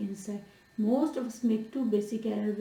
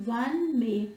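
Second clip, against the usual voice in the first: "may" drawn out with a swell in pitch; stress on "may". Real, not acted. Reader underlining a caveat for listeners, stress on "may". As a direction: lean on the word "may" and stretch it. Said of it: "let me emphasize the word may".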